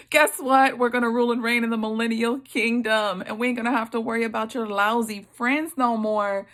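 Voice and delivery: loud, fast, gleeful announcement; excited. Pretend. Preacher imagining telling Job his future, excitedly. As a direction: burst out with joyful news. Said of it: "I would be like".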